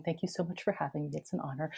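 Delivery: quick, hushed formal thanks; formal courtesy, tossed off quietly. Shown as a demonstration. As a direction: say the polite formula softly and briskly. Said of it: "more formally, I should be saying".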